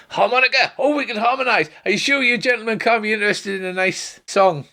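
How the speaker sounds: very high, eager bard; high, thrilled minstrel; excited Tarbin. Acted. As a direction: leap at the chance to sing. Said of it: "and then Tarbin says".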